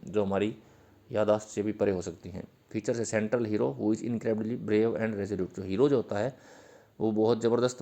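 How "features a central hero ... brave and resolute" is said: slow dictation. Shown as a demonstration. Dictating English definition to students.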